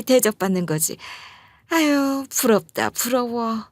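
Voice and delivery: gushing, envious auntie voice; fawning praise. Acted. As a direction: flatter her sweetly. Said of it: "이렇게 칭찬하고 있는 거예요". (사부인을 부러워하며 칭찬하는 시어머니)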